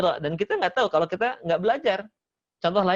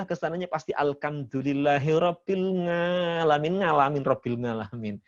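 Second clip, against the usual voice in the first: Javanese ain as nga. Retold or imitated. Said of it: "huruf ainnya suka jadi nga".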